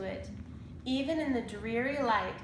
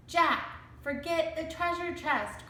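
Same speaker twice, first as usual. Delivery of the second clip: cried; 7 semitones higher than usual. A narrator's reading. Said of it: "cried Annie".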